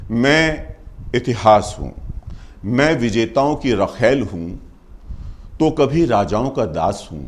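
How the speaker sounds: measured first-person verse with pauses; poem recitation. Acted. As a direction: declaim it line by line as History.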